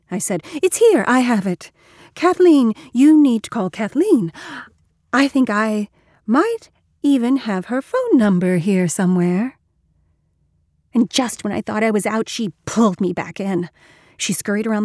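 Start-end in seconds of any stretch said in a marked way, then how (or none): 0.6-9.6 high, loud and pressing; urgent insistence. Acted. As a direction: push her to call, urgently. Urgently insisting on the phone call.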